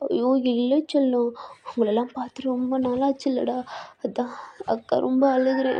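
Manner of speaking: tearful whisper. Acted. Sister consoled while she cries.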